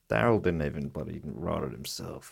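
mock New Zealand accent; Kiwi accent. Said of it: "that with a Kiwi accent".

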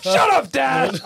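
high exasperated shout at dad; Frasier impression. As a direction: snap it like a snooty son. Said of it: "did Frasier say".

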